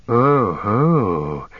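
hissed, breathy goblin oh ho; a sly, delighted hiss; the goblin hissing softly as he catches on. A narrator's reading. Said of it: "hissed the goblin softly".

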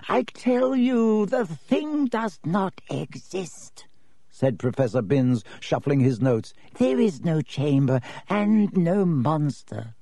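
high, slow, reedy insistence; dry old teacher, insisting slowly; firm reedy professor. Acted.

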